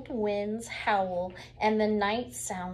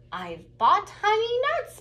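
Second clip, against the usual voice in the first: higher, louder eager offer; grinning badger; 11 semitones higher, 6 dB louder than usual. Badger offering honey nuts to friends, grinning. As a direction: sound like you're grinning. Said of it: "badger says with a grin".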